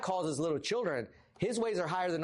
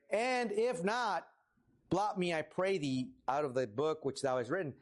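dramatic Moses. Acted. Moses pleading dramatically with God. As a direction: play Moses begging God to blot him out. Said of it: "here's where he gets a little dramatic".

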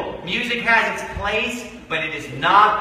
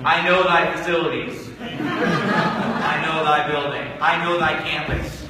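laughing mock quote; 4 semitones lower, slower than usual.

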